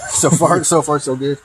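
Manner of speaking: laughing nervously through words; uneasy chuckle while talking. Real, not acted. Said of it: "You good at nervous laugh?".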